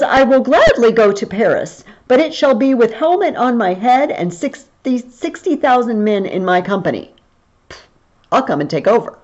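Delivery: mildly defiant mock-prince reply; disrespectful defiance. Black Prince answering the French king's summons, mildly disrespectful. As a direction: act out a vassal's insolent boast, lightly. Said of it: "It doesn't sound very, very respectful".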